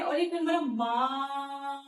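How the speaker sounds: माँ said slowly and drawn out; slowly stretched. Shown as a demonstration. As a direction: lengthen the vowel in माँ. (माँ का स्वर धीरे से खींचना)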